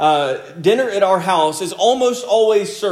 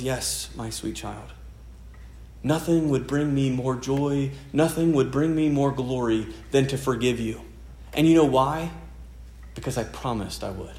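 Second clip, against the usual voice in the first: tender fatherly reply; 4 semitones lower, 5 dB quieter than usual. Pretend. God answers his child tenderly.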